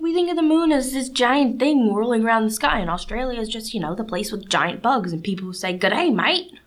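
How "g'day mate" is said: lightly attempted Aussie accent; bad Australian accent. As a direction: try an Australian accent and miss a little. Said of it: "that was a really bad Australian accent".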